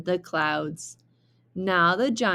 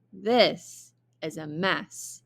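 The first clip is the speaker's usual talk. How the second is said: sighing mother; slower than usual. Acted. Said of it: "sighed his mother".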